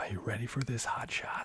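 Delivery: put-on American accent, character voice. Actor quoting her so-American character from a Bee Movie sync performance, American accent. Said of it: "my character is so American".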